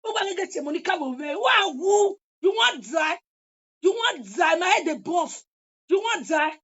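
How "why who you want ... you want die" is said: angry shouted threat. Real, not acted. Furious threat at rival.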